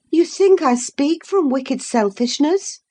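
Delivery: put-on a proud lady scolding a foolish girl; scornful young lady.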